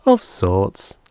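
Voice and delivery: strange creature voice; alien voice. Acted. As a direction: add it coldly as the alien. Alien adds, approaching.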